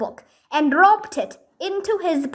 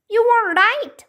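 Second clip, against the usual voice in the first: wail; 8 semitones higher than usual. A narrator's reading. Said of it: "wailed Annie".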